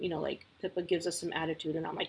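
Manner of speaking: ordinary delivery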